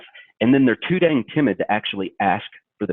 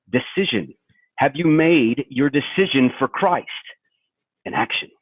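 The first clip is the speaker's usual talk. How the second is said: lightly voiced pushy sales boss; bad Alec Baldwin impersonation; 3 semitones higher than usual. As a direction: ham up a hard-selling pep talk. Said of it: "my bad Alec Baldwin impersonation".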